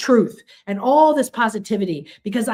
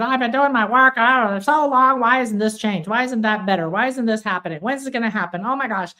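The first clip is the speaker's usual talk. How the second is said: higher, plaintive complaining voice; mock your old impatient self; frustrated whining; 4 semitones higher than usual. Speaker imitates her past frustrated self, whiny complaint. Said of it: "I used to get frustrated because I said".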